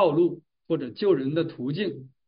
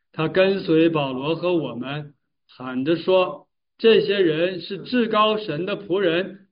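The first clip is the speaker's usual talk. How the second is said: measured, deliberate reading aloud of scripture. Acted. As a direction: lead a congregation through the verse, phrase by phrase. Reads scripture aloud together.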